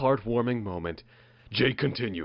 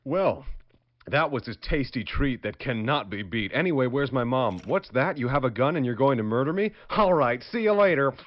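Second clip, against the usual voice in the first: put-on soft, innocent little girl, deadpan; 4 dB quieter than usual. Lost girl asking a stranger for help, soft and innocent. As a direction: play a naive lost girl, softly.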